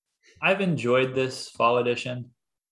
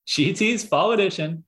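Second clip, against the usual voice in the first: robot voice; 5 semitones higher than usual. Pretend. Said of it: "the E T F five bot".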